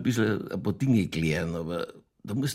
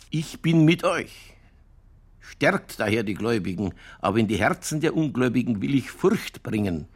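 solemn scripture reading. Acted. Innkeeper reading Koran verses aloud to his friend, mock solemn. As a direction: intone it like a preacher from the book. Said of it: "da sagt der Allah zu Mohammed".

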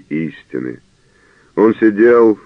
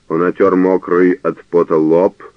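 ordinary delivery, nothing marked

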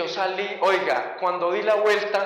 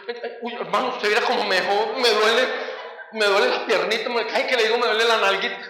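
hammed-up whining about small injuries; comic wounded complaint; mock pain; 3 semitones higher than usual. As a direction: play the pitiful victim for laughs. Plays up injuries to policeman.

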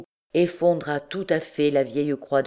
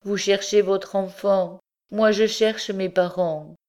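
higher-pitched, plaintive plea; plaintive young captive, pitched up; faltering lament; 5 semitones higher than usual. A narrator's reading. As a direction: plead wearily as the exhausted girl. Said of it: "bégaya-t-elle".

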